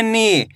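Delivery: नी with a long ee; drawn-out vowel. Shown as a demonstration. Teacher demonstrating the big matra, नी stretched out. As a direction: hold the ee in नी. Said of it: "खींच के पढ़ा जाता है".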